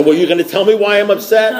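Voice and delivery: high, exasperated demand; acted indignation. Caller demands answer from sponsor, acting indignant. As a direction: pitch it up in mock outraged disbelief.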